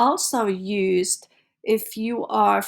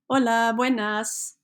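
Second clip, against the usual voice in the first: friendly, unhurried Hola, buenas; mean the greeting to a stranger; with expression; 2 semitones higher, slower than usual. Shown as a demonstration. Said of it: "say it with expression, like you mean it".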